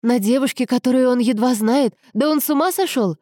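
high-pitched incredulous outburst; shocked, agitated sister; indignant exclamation. A narrator's reading. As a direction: protest in outrage and disbelief. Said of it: "воскликнула Аньеза".

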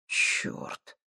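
whispered curse under the breath. A narrator's reading. Komissarov startled by a face, whispered curse. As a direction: breathe it out, barely voiced. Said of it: "тихо выдохнул он".

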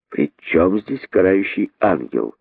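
slow, cool question; restrained, chilly retort; cold reply. Acted. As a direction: answer coolly and unhurriedly. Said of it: "холодно ответил находчивый".

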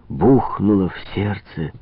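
plain reading voice

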